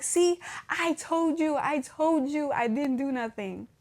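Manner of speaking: slow, drawn-out I-told-you-so; mock vindication. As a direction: rub it in, stretching the words. Acting out vindication to mom.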